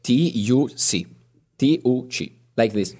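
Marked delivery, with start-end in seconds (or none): 1.6-2.3 "T U C" spelt as ti, u, ci; Italian letter names. Shown as a demonstration. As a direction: spell "T U C" in Italian.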